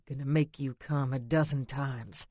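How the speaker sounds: low raspy male voice; rasp. Acted. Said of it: "he rasps".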